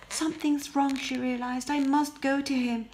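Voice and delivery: urgent rush to leave; alarm. Acted. Beauty realizing the Beast is in danger, urgent.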